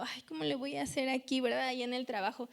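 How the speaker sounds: lightly acted anxious worker at his job; worried. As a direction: rattle off your work worries, pitch climbing toward the end. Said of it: "Y estás ahí preocupado".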